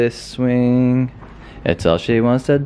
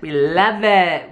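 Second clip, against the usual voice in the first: slower, higher sarcastic cheer; 6 semitones higher than usual. Real, not acted. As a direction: overdo it sarcastically. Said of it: "I'm totally joking".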